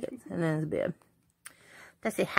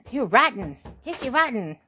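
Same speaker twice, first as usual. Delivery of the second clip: fond mock scolding, pitched up; affectionate teasing; 4 semitones higher, 4 dB louder than usual. Real, not acted. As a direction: tease the dog lovingly. Teasing baby-talk.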